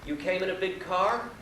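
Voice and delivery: lightly voiced guru's slow, high rising question; old holy man. Holy man questioning his American visitor, lightly put-on old man's question. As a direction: ask slowly, lifting the pitch right through. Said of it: "the old man looks up and he says".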